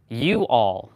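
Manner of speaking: "You all" as two separate words; carefully part "You all" into two words; teacher's correction. Retold or imitated. Teacher corrects Steve's slang, correcting "You all". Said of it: "she was attempting to correct him".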